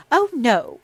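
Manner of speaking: very high, loud tearful cry; young lady weeping at her sister-in-law. Acted. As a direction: wail it through tears. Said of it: "wept the young lady".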